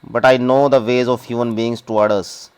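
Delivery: reads the English very slowly, word by word; slow story reading. Acted. Teacher reading the story text to the class, slow and deliberate. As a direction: spell the story out slowly for students.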